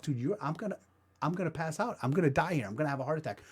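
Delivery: quietly convince yourself you're dying; panicked inner voice. Retold or imitated. Inner panic while gasping.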